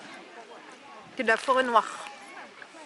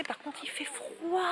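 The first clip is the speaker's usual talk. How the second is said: laughing; 4 semitones higher, 10 dB quieter, slower than usual. Real, not acted. Laughing about the cold.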